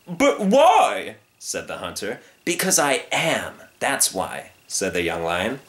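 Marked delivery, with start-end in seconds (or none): 0.1-1.2 very high, loud wail; blustering hunter's protest; dismayed hunter. Acted. Hunter wails in alarm. 2.4-4.5 slow, emphatic answer, high then dropping; decided, drawn-out comeback; firm young lion. Acted. Young lion echoes hunter's answer.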